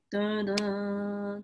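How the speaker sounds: drawn-out dun-dun sting; sung "dun-dun" fanfare. Acted. Storyteller unveils the giant stain monster, mock fanfare. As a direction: hum a suspenseful reveal sting.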